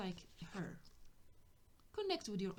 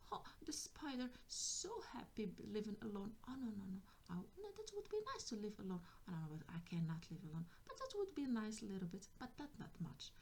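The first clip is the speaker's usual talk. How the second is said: put-on musing child; 5 dB quieter, faster than usual. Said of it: "now she is interested in this".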